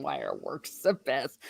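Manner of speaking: soft secret whisper. Pretend. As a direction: breathe it like a secret tip. Reading a chat message aloud.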